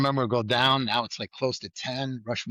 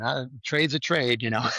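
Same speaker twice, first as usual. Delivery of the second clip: mock Danny Lean. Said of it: "there's Danny Lean going".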